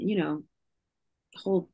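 normal talking voice

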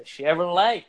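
emphatic Southern "Chevrolet", leaned on hard; Southern accent. Retold or imitated. Imitating people down here, emphatic Southern accent. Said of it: "how people down here say".

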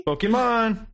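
mock trailer voice saying Pokemon; mock announcer. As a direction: sell the name like a cheesy ad.

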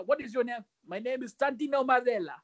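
imitating a wrestler's put-on Italian accent; English with a comic Italian accent; mock Italian accent. Comedian mimics Santino introducing himself, mock Italian accent. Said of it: "ก็พูดสำเนียงอิตาเลียนอะ".

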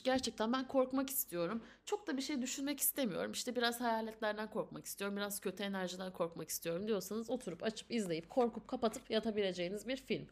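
rushed without a breath; all in one breath. Real, not acted. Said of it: "Tek nefeste söyledim".

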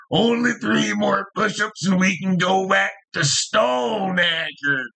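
mock own voice. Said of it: "I sound just like that".

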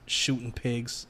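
put-on Italian accent. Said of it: "Your Italian accent is not bad".

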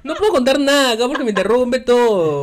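loud laughing complaint; laughing through words. Real, not acted. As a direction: laugh while protesting.

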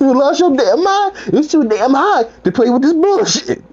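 high-pitched, worked-up mock rant; aggravated. Hot server scolding the clapping guest, high aggravated rant. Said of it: "I was too aggravated".

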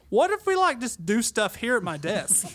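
imitating the boss. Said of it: "he sounded exactly like that".

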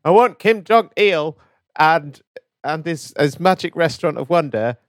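high, loud, eager demand; excited wanting. Real, not acted. Host begging his co-host for the toy set, excited.

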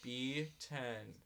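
flat, bored bingo call; monotone voice. Retold or imitated. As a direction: drone it like you hate the job. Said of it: "Monotone voice".

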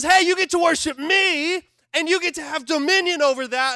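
God speaking. Acted. God's words voiced in sermon.

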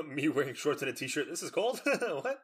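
mock disbelief. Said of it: "I'm like".

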